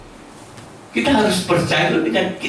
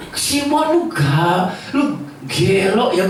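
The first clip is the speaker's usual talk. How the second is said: mock scolding; 3 semitones higher, slower than usual. Imagined harsh Jesus scolding Simon.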